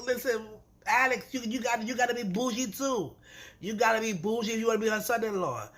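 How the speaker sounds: high, insistent coaching of a friend; mock advice. Vlogger urging Alex to be bougie, high and insistent. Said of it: "I'm like".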